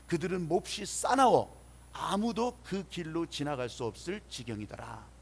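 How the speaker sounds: measured public Bible reading; scripture reading. Acted. Pastor leading the congregation's responsive reading, formal scripture reading. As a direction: read the verse out solemnly, falling at the close.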